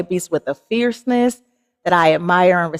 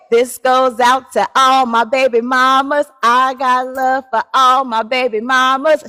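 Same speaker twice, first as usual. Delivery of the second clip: shout-out; 5 semitones higher than usual. Real, not acted. Shout-out to mothers.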